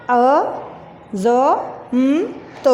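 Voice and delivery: careful letters for pupils; spelling out letters. Shown as a demonstration. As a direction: build निखारे letter by letter. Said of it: "Azmat".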